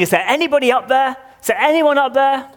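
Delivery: high, loud desperate call upward; desperate yelling. Acted. Man dangling from branch shouts up for rescue, high and loud. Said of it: "he started yelling".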